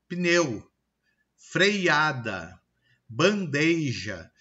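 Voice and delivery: "Pneu, freada, bandeja" as "pineu, freiada, bandeija"; "freada" as "frei-ada", "bandeja" as "ban-dei-ja"; added-sound mispronunciation. Shown as a demonstration. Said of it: "Estou acrescentando".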